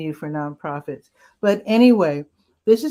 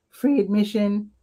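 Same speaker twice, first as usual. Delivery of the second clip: voice cracking; 2 semitones higher than usual. Real, not acted. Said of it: "There's my voice again".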